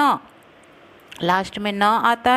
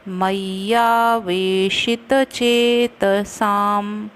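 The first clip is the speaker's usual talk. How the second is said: slow verse recitation; much slower than usual. Shown as a demonstration. Teacher reciting Gita verse to students, slow and measured. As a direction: recite the Sanskrit verse slowly and evenly.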